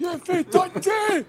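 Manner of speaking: high, slow, shouted Scottish Dundee; aggressive Scottish shout. Shown as a demonstration. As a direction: yell it like an angry Scot. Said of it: "if you sound aggressive".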